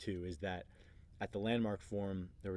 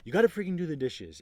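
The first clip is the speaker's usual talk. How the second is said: higher, louder mock complaint; upset nagging; 7 semitones higher, 8 dB louder than usual. Upset woman to her man about chores, mock nagging. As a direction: imitate a woman telling him off, loudly. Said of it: "women are generally upset".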